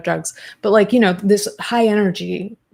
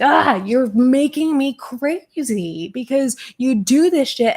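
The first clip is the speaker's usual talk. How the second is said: exasperated outburst; 5 semitones higher, slower than usual. Retold or imitated. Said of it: "so many people are just like".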